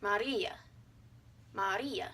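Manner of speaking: "Maria" in Spanish as ma-REE-a; three syllables. Shown as a demonstration. Teacher shows accented vowel, "Maria" in three syllables. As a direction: stress the middle of "Maria", keeping the last vowel separate. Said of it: "three syllables".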